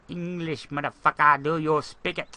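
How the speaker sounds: loud, slowing demand to speak English; mock yell. Gamer yelling at a Russian in chat, mock shout. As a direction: bark it like a famous movie line.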